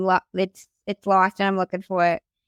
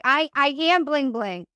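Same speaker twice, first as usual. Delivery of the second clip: higher, slow insistent stammer; eager claim; 4 semitones higher, slower than usual. Retold or imitated. Retold eager claim to the AirPods.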